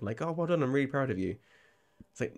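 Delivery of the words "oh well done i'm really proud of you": higher-pitched mock praise; unintended sarcasm. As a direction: praise that accidentally sounds sarcastic. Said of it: "sounds like you are being sarcastic".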